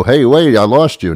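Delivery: high, loud cutting-out call; sudden alarm on a bad line; frantic phone voice. Mimicking a dropped phone call.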